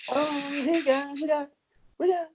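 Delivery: slow, high hammed-up Southern accent. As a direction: drawl it in a fake Southern accent. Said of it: "tried to do his southern accent".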